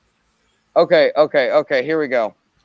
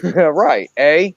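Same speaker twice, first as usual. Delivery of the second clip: Canadian eh; 2 semitones higher, 5 dB louder than usual. Pretend. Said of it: "Is that Canadian?".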